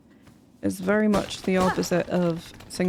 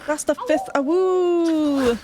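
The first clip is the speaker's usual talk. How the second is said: wolf voice; 8 semitones higher, 4 dB louder, slower than usual. Pretend. High far voice for Awu.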